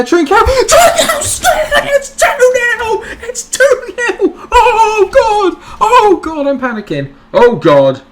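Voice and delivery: very high, loud screaming with laughter; real euphoric shrieking, half laughing; ecstatic scream. Real, not acted. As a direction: lose it completely at the winning goal. Late winning goal celebration.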